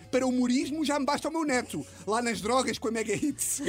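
a touch of grandma's fury; mock angry granny. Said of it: "a minha avó estava com uma raiva e disse".

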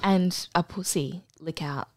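cheeky unvoiced whisper; whispered aside. Real, not acted. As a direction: slip it in as a naughty secret.

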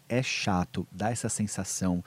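low, soft acknowledgment; empathetic validation. Shown as a demonstration. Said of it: "você vai precisar ouvir e falar assim".

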